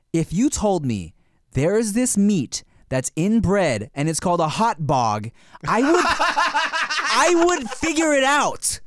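slow argument climbing into high exasperation; arguing, incredulous. Retold or imitated. Son making an argument to his parents, exasperated. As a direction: build from measured case to high, stretched protest. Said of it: "old enough to make an argument".

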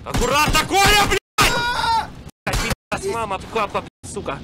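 put-on roaring old man yelling; grandpa voice. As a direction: bellow like a furious grandpa. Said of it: "рычит голосом деда".

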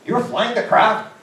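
second, bigger disbelieving take; stunned disbelief. Retold or imitated. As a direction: stretch each word out in amazement. Retelling his disbelief, stretched.

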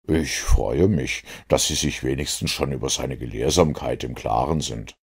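reply low, with measured composure; composed Holmes. Acted. Holmes answers the inspector about the professor, lightly voiced composure.

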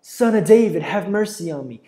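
high, loud on "David"; crying out. A narrator's reading. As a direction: shout across the crowd. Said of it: "he begins to cry out".

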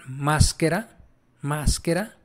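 máscara with a hard k sound; Italian pronunciation demo. Shown as a demonstration. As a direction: say máscara clearly, as a teacher modelling Italian. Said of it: "tal cual se pronuncian, igual que español".

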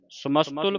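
ਸਮਸਤੁਲ run together as one word; no break inside ਸਮਸਤੁਲ, sa-mas-tul in one piece; joined as one. Shown as a demonstration. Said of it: "ਸਮਸਤੁਲ ਇਕੱਠਾ ਪੜ੍ਹਨਾ ਹੈ".

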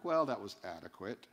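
low, faintly dismissive verdict; negative, unimpressed. Acted. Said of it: "is used in a negative term".

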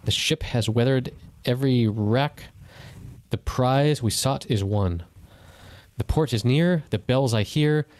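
slow, solemn reading of a poem; steady, grave poetry reading with dramatic pauses; poem recitation. Acted. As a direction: recite it like a mournful elegy. Reads the poem aloud.

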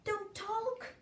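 a hint of a strict schoolmistress; strict teacher. Teacher telling the class to sit up, lightly prim. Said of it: "telling the class".

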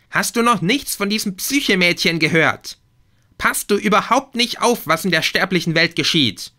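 high, loud indignant goddess; shrieking Aphrodite. A narrator's reading. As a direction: scold him like a furious diva. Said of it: "kreischte Aphrodite". (Aphrodite schimpft ihren Sohn schrill und laut aus)

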